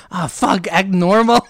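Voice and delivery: laughing mock panic. Caught fighter telling himself.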